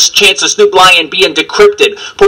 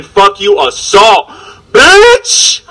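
screamed punchline; much slower than usual. Acted. Battle rapper mock-screaming the end of his bar.

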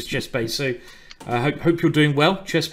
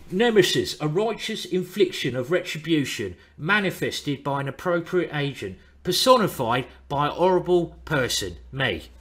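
dramatic film quote; 2 semitones higher than usual. Shown as a demonstration. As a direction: declaim it like a menacing film line. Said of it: "Can you do it one more time so I can hear?".

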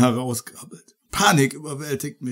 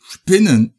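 scream; 4 semitones higher, 11 dB louder than usual. Acted. Ich schreie auf.

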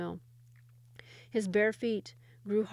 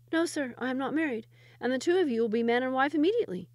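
put-on shepherd boy explaining; 4 semitones higher than usual.

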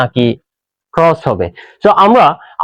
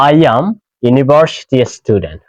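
slow model sentence; 3 semitones lower, much slower than usual. Shown as a demonstration. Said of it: "slow model sentence".

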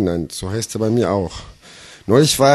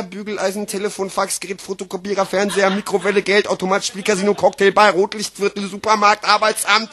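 even-pitched, steady run of items; deadpan list patter; 7 semitones higher than usual. Acted. Slam poet listing toilet features, deadpan patter. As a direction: reel off the features without a break. Recites mock sales list.

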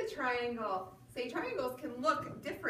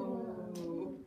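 slow hello; 4 semitones lower than usual. Shown as a demonstration. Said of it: "hello as slow as we can".

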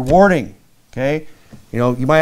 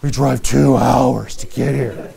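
slow, with a laugh on "two hours"; cheerful, laughing; 2 semitones lower, slower than usual. Retold or imitated. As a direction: laugh off the long drive. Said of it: "But they weren't like".

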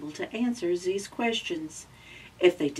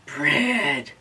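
excited gasp. Acted. Gasp at discovery.

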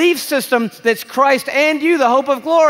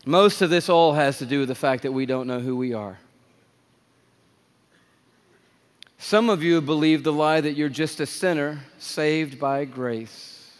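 quiet intimate preaching; 10 semitones lower, 7 dB quieter than usual. Real, not acted. Low quiet sermon stretch.

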